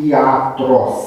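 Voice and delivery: iatros with i and a as separate syllables; vowels in hiatus. Shown as a demonstration. Teacher gives class a Greek example, iatros in hiatus. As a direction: say iatros as i-a-tros, vowels unmerged. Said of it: "ca niște vocale în hiat".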